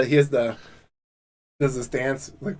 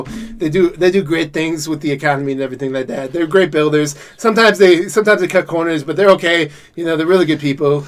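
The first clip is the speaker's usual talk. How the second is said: Trump impression. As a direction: ramble like Trump praising the Willises. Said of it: "I can do a decent Trump".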